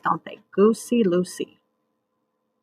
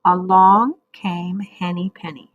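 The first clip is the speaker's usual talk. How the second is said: choral reading with class. Shown as a demonstration. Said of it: "now you say it with me".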